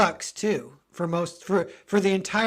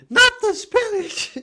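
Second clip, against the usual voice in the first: high shocked cry; 7 dB louder, slower than usual. Retold or imitated. Olive voice, spinach joke.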